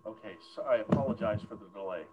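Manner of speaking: distant, hollow bad mic; echoey sound like down a well. Real, not acted. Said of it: "You sound like you're down a well".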